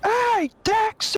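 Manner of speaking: put-on very high, loud, old-fashioned New York street yell.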